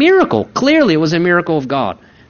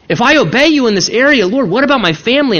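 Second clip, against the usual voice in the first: higher, anxious mock protest to God; worried pleading; 5 semitones higher, faster than usual. Believer asking the Lord about his family, worried pleading. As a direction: plead your worries with a lifted voice.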